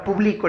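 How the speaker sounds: "publico" with the voice's force on bli; acento en bli. Shown as a demonstration. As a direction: stress the middle of "publico": pu-BLI-co. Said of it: "la mayor fuerza de voz está en bli". ("publico" acentuado en la sílaba bli)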